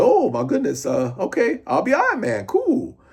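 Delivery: high, exaggerated Black American accent; jokey mock Black accent, leaping up into a squeak; Rhodey in put-on Black accent. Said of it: "that is how I did Rhodey".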